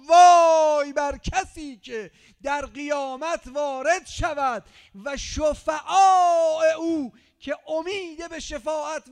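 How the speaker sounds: slow, loud, high fiery recital; preaching at full force. Real, not acted. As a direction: thunder the warning out. Reads hadith at full force. (خطابهٔ پرشور و بلند)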